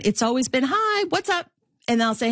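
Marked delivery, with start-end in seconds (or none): 0.7-1.5 curt mom. Retold or imitated. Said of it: "but get to the point".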